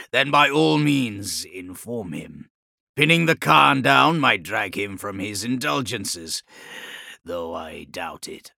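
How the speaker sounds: slow, dry, mocking reply; dry sardonic lord. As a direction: scoff at the absent father.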